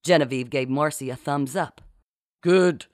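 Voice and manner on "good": abrupt, louder forced word; choked out. A narrator's reading. Marcy answers through door at a loss, choked. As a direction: force out one word in a fake captain voice. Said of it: "Marcy choked out".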